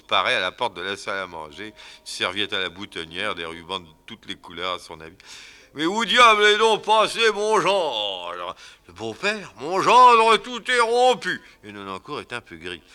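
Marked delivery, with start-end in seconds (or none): 5.7-11.4 high, loud, drawn-out bellow; furious father-in-law. Acted. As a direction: storm in looking for him. Angry father-in-law bursts in.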